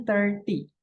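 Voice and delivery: thirty stressed on thir, falling off. Shown as a demonstration. Teacher contrasts it with thirteen, stress on thir. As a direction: punch thir in thirty, teen sound absent. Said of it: "penekanannya di ter".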